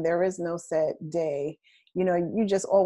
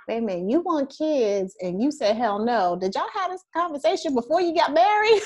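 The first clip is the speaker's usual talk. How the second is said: incredulous, climbing higher to the final question; mock disbelief; 6 semitones higher, 3 dB louder than usual. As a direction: call out a couple in exaggerated astonishment. Acts out shocked reaction to couple.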